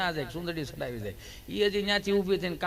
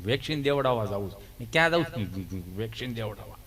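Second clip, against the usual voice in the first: Gabho's voice; 9 semitones lower than usual. Retold or imitated. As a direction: mumble it low like a simple villager. Friend Gabho voiced in story.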